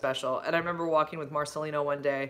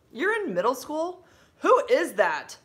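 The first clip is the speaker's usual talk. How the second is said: surprised question; 10 semitones higher, 7 dB louder, slower than usual. Real, not acted. Reacting to a young viewer.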